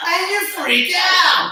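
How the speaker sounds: high, slow, laughing. Real, not acted. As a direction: laugh through the words. Laughing after mock wail.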